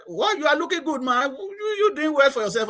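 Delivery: admiring greeting. Retold or imitated. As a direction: voice an admiring friend, pitch lifted. Colleagues' admiring remark, voiced.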